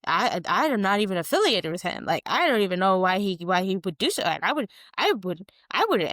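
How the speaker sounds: indignant mock disavowal; hammed-up flustered denial; Christian. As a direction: protest in swooping, over-stressed phrases. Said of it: "Christian is like".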